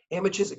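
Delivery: "Emma Chiswick" run together like a name; Aussie slang demo. Shown as a demonstration. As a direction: teach "Emma Chiswick" in Australian, rising at the end. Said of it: "Can you say that?".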